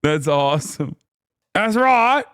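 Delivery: mock British accent. Carries on the mocked British chatter.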